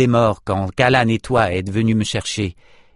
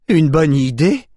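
slow, high incredulous cry; high outraged echo, drawn out; indignant outcry; 5 semitones higher, 4 dB louder than usual. A narrator's reading. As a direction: throw the words back in disbelief. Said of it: "s'écria Nietzsche".

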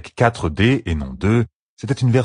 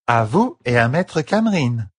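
higher, slurring tipsy woman; slurred drunk voice; 5 semitones higher than usual. Acted. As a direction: sound a little drunk and slurry. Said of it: "d'une voix pâteuse".

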